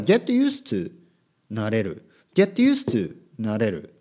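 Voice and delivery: word-list recording style, each word set apart; imitated vocabulary audiobook. Teacher mocking up a word-list audiobook, recited drill style. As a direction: mimic a bilingual vocabulary drill. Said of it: "オーディオブックみたいなのは".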